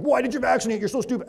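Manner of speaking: mock the patient as if they were dumb; a demo of the wrong, belittling way to ask; condescending put-down. Shown as a demonstration. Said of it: "I don't say it like".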